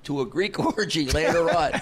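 laughing through the punchline; retold answer with a laugh in it; laughing quote. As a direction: break up mid-word. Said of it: "I go".

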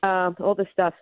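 winded from the stairs; breathless, catching her breath. Real, not acted. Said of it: "I'm out of breath. I went down the stairs".

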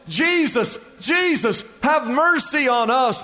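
high pleading cry to Jesus; crying out loud. Retold or imitated. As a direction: call out desperately for mercy. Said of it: "they cried out in a loud voice".

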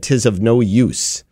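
put-on old-fashioned British woman. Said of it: "a woman came off of it and said".

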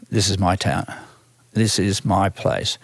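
quiet conviction. Retold or imitated. Recalling his first drive into New York, quiet conviction. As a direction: savour each word as a private realisation.

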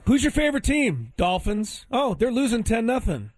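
high, lightly voiced replay of the exchange; a touch of sarcastic mimicry; mock replay. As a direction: reenact it with mock cheer. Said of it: "replaying the exchange".

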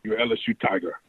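a hint of a big Louisiana head coach recruiting a player; Coach O impression. LSU rookie imitating his old coach's recruiting pitch, lightly done. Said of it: "asking Rashard Lawrence to channel his Coach O".

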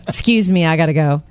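imitating an unruffled husband; calm. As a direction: excuse yourself without any fuss, voice sinking. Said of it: "Like, that calm".

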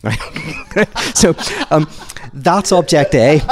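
real laughter bubbling through the words; amused laughing talk after the joke; laughing while talking. Real, not acted. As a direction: chuckle out the punchline explanation. Laughing at own joke punchline.

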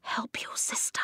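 whispered, gentle plea; hushed, breath-only urging; soft murmur. A narrator's reading. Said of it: "Eska murmured".

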